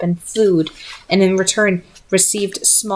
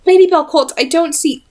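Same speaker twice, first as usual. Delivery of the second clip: surprised exclaim; 8 semitones higher than usual. Acted. Charlotte confused, exclaiming.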